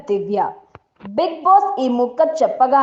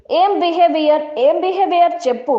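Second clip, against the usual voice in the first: raised voice; 5 semitones higher than usual. Retold or imitated. Divya raising her voice at Tanuja, mildly heated. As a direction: retell the voice rising in a quarrel. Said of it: "Divya voice raise చేసింది".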